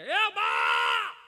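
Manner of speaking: long, loud drawn-out call to mother; loud stretched shout calling mother from across the field. Retold or imitated. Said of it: "તો અહીંથી રાડ નાખે".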